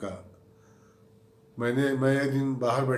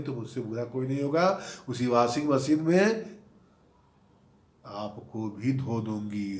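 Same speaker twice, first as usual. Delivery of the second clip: menacing threat. Retold or imitated. Wife threatens husband.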